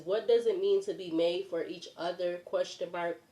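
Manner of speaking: stuffy, muffled voice from a cold. Real, not acted. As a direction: speak muffled, as if nose blocked. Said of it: "sounding muffled".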